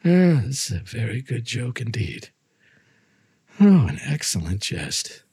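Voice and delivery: a touch of forced merriment, sad underneath. Acted. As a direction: laugh it off with rising dread. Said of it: "a sad voice".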